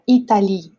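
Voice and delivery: "Italie" ending on I, its E unspoken; silent final E. Shown as a demonstration. Teacher recalls the example for students, silent final E. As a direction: say "Italie" without voicing the last letter. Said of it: "com E e a gente não pronuncia".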